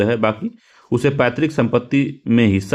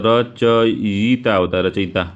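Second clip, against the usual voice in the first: slow correct form; 2 semitones lower, much slower than usual. Shown as a demonstration. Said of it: "रचयिता नहीं लिखा होता".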